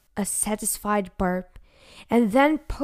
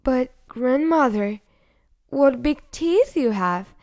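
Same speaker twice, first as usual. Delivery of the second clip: quivering voice; 4 semitones higher, 5 dB louder than usual. Acted. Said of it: "her voice quiveringly slightly".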